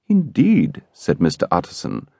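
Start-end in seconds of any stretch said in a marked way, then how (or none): 0.1-0.8 Utterson's voice shifts a touch, raised and guarded; a quick, lightly higher "Indeed" with a small change in tone; slight change of voice. A narrator's reading. To Enfield, Utterson answers with a slight change of voice. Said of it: "with a slight change of voice".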